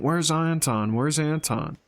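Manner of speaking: a daughter recalls her mother shouting, mild mock cry; retold shouting. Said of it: "She kept shouting".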